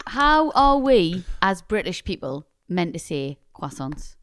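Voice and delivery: drawn-out, pondering "how"; slow deliberate question. Real, not acted. Co-host wondering how British people should say it, slow and deliberate. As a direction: ask it slowly, weighing each word. Puzzles aloud over correct pronunciation.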